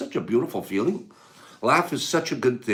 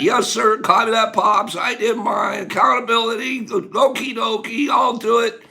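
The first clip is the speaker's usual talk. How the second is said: put-on eager kid replying; 7 semitones higher than usual. Viewer-kid shouting back to Pops, mock-obedient and eager. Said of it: "till I see five kids say".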